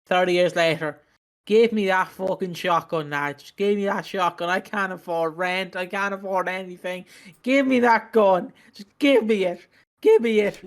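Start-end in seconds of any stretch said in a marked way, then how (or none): 1.4-10.6 desperate man. Acted. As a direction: beg for the gun, rising to a cry. Desperate broke man begging for gun.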